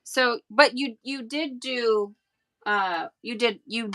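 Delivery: halting, repeating the words; stuttering. Real, not acted. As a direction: stumble over the start of each phrase. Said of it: "I'm stuttering".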